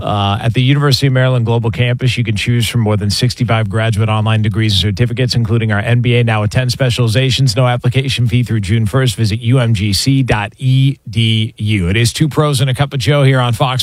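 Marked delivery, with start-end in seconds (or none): 0.0-11.9 brisk, even radio ad read. Acted. Radio host reading a university sponsor ad to listeners. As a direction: sell it like a live sponsor spot.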